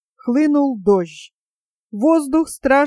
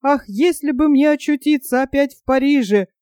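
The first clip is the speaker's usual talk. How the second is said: fast, higher wailing; panicked lament; 3 semitones higher, faster than usual. Acted. Panurge, seeing only water, longs for Paris. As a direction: rush the words in despair.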